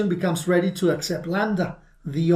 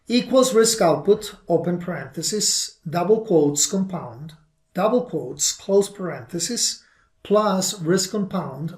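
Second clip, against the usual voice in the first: dictating. Shown as a demonstration. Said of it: "It should contain the following function".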